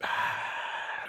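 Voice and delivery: long breathy hiss for a roaring crowd; hushed mouth-made crowd ambience; imitated crowd noise. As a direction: exhale a soft unvoiced crowd roar.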